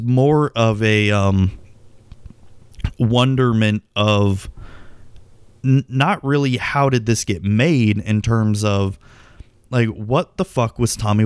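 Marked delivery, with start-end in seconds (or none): none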